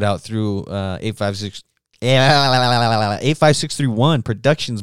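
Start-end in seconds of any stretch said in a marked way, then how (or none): 2.0-4.8 slow, louder, drawn-out hammed-up announcer read; strange announcer voice. Host plugs his production company in a strange, hammed-up announcer voice. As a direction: boom out the company name like a promo. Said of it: "I didn't mean to get so fucking strange right there".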